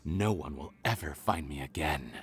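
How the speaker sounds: gloating villain. Acted. Villain gloats leaving them to die.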